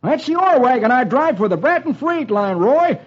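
high, panicky yelling warning; old-timer screaming look out; jittery old-timer, alarmed. Acted. Dolfo warns, panicked.

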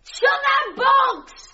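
high, drawn-out shout; frantic yelled order; desperate shout. Acted. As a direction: stretch each word over the gale. Screams orders over the gale.

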